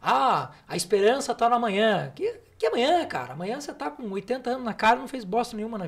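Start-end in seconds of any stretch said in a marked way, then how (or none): 0.0-2.1 mocking naive hope. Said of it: "enredado por esse tipo de história". 2.1-3.0 incredulous scoff. Real, not acted. Scoffing at hope in tomorrow.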